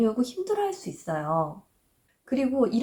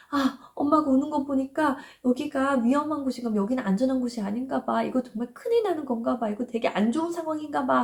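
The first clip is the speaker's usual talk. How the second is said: higher, lightly voiced worried little child; anxious child voice; 5 semitones higher than usual. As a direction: play a small kid sensing danger, mildly. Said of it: "아이는 굉장히 불안해할 수 있어요". (엄마가 우는 걸 본 아이의 살짝 불안한 목소리)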